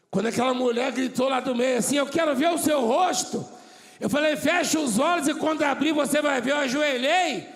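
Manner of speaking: loud, high preaching shout; preaching at full force. Real, not acted. Preacher shouts the healing story to the church. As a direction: build to a roaring climax.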